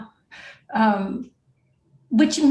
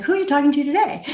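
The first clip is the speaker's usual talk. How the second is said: husband's question; 8 semitones higher, much faster than usual. Retold or imitated. Husband quoted in story.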